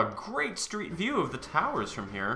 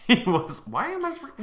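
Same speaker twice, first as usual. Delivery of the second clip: camp it up as a Southern belle with attitude; slipping into a sassy Southern accent mid-read; sassy Southern lady; 10 semitones higher than usual. Acted. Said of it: "the sassy Southern lady voice".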